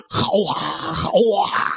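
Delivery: rousing cheer of a crowd. Retold or imitated. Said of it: "大家伙都说".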